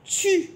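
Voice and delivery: "tu" alone, pitched high; syllable by syllable. Shown as a demonstration. Teacher counting the syllables of tortue, syllable by syllable. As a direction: sound out "tu" as a separate, high syllable. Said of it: "Il y a deux syllabes".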